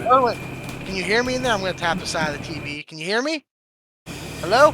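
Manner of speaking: calling out. Acted. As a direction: call out to someone trapped.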